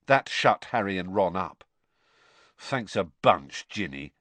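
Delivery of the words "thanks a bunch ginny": slow, sour sarcasm; sourly. Acted. Ron resenting his sister's telling, sourly. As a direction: drag out the thanks, dropping at the end. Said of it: "said Ron sourly".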